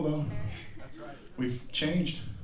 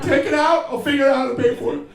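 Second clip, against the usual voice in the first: much higher, loud and rushed; frantic plea; 12 semitones higher, 6 dB louder, faster than usual. Retold or imitated. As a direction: babble it out desperate. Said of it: "I was like".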